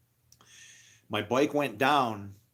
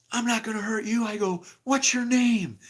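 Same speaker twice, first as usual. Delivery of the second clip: higher, firm quoting; retelling himself to the kid; own voice retold; 11 semitones higher, 5 dB louder than usual. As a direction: ask it pitched up. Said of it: "And I go".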